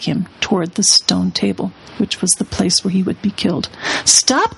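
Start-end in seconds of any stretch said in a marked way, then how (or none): 4.0-4.6 sudden high shout of Stop; witch's cry. A narrator's reading. Witch halting her followers, sharp high shout. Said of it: "cried the witch".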